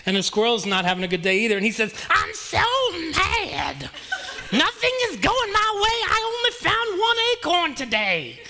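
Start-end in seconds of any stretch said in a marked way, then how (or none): 2.1-8.4 much higher, frantic squirrel voice with laughter; freaking-out squirrel. Acted. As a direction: squeak it out like a crazy squirrel. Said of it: "He's freaking out".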